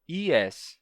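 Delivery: "es" without the y glide; wrong es. Shown as a demonstration. Teacher showing the mistaken pronunciation. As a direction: say "es" dropping the y. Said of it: "não pode nunca pronunciar".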